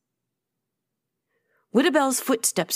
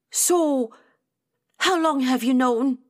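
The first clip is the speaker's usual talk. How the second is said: hurt questioning; 4 semitones higher than usual. A narrator's reading. Atia asking her friends how long they have known, hurt questioning. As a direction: draw out "So", then ask. Confronting friends over hidden death.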